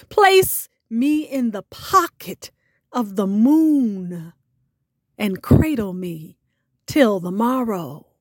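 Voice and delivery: spoken-word poem, steady and grave; poem recital. Acted. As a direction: recite it like an offering. Host recites her poem.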